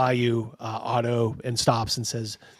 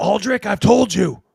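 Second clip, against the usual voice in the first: mock gruff, rough, loud half-yell; 9 semitones higher, 5 dB louder than usual. Voicing the innkeeper calling to aldrich: innkeeper yelling. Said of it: "he kinda yells".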